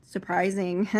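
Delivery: flustered brush-off; embarrassed denial. Retold or imitated. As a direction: cover the flinch with a quick excuse.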